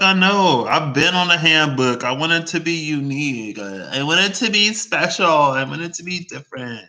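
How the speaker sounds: high-pitched, pleading self-defense; whiny mock protest. Student defending a creative resume to an adviser, whiny mock protest. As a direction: plead your case in a hammed-up high voice.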